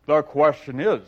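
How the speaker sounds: booming self-important Humpty; Humpty Dumpty. Acted. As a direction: lord it over her. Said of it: "said Humpty Dumpty".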